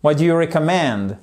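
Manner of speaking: "recommend" with main stress on MEND; small stress on REC, big one on MEND in "recommend"; stress on final syllable. Shown as a demonstration. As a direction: land firmly on the end of "recommend". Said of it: "on en a un gros ici".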